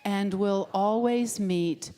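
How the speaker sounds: slow, loud unison-style affirmation; recited affirmation. Acted. Leading the congregation in a slow spoken affirmation. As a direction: intone it slowly like a creed.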